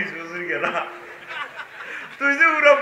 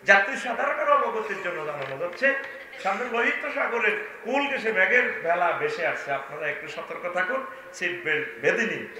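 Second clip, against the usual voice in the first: airline pilot announcement; 2 semitones lower, 4 dB quieter than usual. Retold or imitated. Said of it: "বলতেছে".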